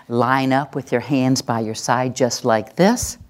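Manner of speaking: measured, certain instruction; assertive. Shown as a demonstration. Teacher telling the class how to line up, assertive. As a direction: give directions with no doubt. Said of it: "which is my assertive voice".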